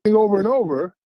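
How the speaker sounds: breaking up, cutting in and out; bad connection dropouts; choppy phone line. Real, not acted. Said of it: "it's kinda choppy".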